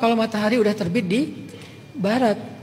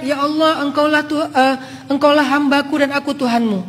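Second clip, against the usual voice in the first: higher and louder, overjoyed cry; a man who has found his lost camel, shouting for joy; joyful shout; 5 semitones higher, 4 dB louder than usual. Retold or imitated. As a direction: shout it out in giddy relief. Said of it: "dia teriak".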